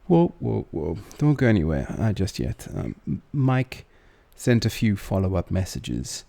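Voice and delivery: loud, urgent call to stop; calling out loudly. Real, not acted. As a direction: raise the voice to stop him leaving. Host stops guest from leaving.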